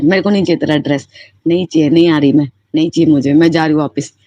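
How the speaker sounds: fast, mock irritated refusal; angry retort. Dancer snapping at the late dress seller, mild retold anger. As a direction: rattle it off like a fed-up customer. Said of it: "मैंने उस लड़की को गुस्से में बोल दिया".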